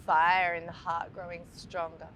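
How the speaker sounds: calm meditation guide, long pauses between phrases; guided meditation. Acted. Teacher guiding listeners to breathe into the heart, calm meditation voice. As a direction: lead listeners gently through the breath, leaving space after each phrase.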